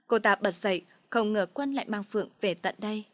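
ordinary delivery, nothing marked

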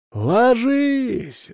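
high urgent yell; shouting. A narrator's reading. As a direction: scream the warning to drop. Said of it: "заорал Дым".

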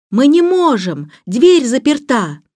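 high, loud, slow distant shout; shouting back. A narrator's reading. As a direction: holler it down from a height. Cyril shouts back from roof. (громко и протяжно кричит)

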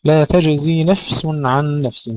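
slow recitation, J and Z separate in تجزي; measured taj-zi in تجزي; distinct jim and zay. Shown as a demonstration. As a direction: articulate the jim fully before zay in تجزي. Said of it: "ننتبه إلى تحقيق الزاي وتحقيق الجيم".

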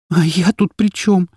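high, slow and scared; a captive girl asks her kidnapper, trembling. A narrator's reading. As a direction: ask it with a trembling voice. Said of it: "дрожащим голосом спросила я".

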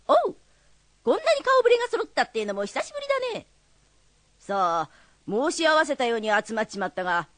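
lightly voiced Edo tenement neighbour; character voice. A student reading rakugo, voicing a tenement neighbour. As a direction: give the old neighbour his own voice. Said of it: "人物で声を変えない方がいいな。".

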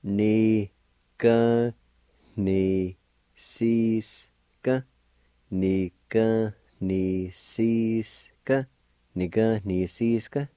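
"Ni, ga, ni, sis, ga" with a nasal N and faint H. Shown as a demonstration. Teacher showing the nasal N in "Ni, ga, ni, sis, ga". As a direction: sound the N of "Ni" through the nose. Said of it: "has a nasal sound to it, like this".

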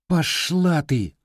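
rude retort. Acted. Boy's slow rude retort.

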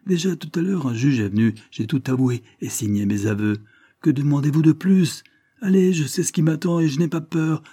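defiant fury, pitch jumping high; enraged outburst. A narrator's reading. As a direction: burst out in an acted rage. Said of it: "en proie à un véritable accès de rage".

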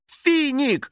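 high vexed cry of Финик; vexed exclaim. A narrator's reading. Girl cries out at the spirit over the stain, vexed. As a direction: blame him. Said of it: "с досадой воскликнула".

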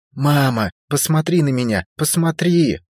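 high desperate shouting; panicked shout. A narrator's reading. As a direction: yell at mother in terror. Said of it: "кричала Эра".

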